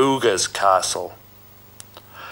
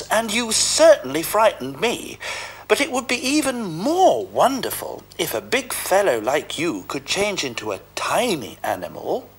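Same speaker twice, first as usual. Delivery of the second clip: much higher, sly flattering cat voice; sly Puss; 9 semitones higher than usual. Acted. Puss tricking the ogre, high sly flattery. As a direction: coax him into a trap.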